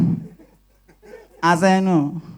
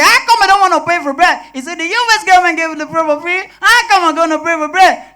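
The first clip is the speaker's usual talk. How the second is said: indignant thief; 7 semitones higher, 3 dB louder than usual. Acted. Thief arguing his free bread.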